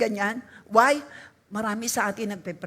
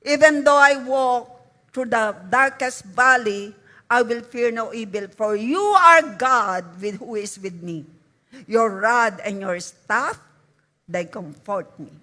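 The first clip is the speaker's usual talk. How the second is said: psalm reading; 2 semitones lower, 5 dB louder than usual. Shown as a demonstration. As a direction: read it out as a solemn declaration. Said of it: "Basahin po natin". (mabagal at taimtim na pagbasa ng Salmo)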